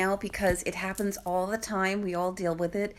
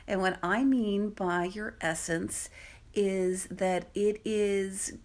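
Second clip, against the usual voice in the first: ordinary delivery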